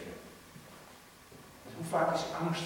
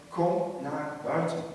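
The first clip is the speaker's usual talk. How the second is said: slow, ringing call out of the tomb; calling the dead out of the grave, slow and loud; 3 semitones higher, 4 dB louder, slower than usual. Acted. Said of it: "met luide stem".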